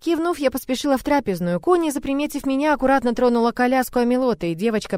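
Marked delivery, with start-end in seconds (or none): none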